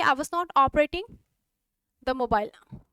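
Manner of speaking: शब्द-दर-शब्द धीरे बोलना; हर शब्द अलग करके धीरे; slow dictation. Shown as a demonstration. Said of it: "teacher dictates slowly". (धीरे-धीरे लिखवाते हुए)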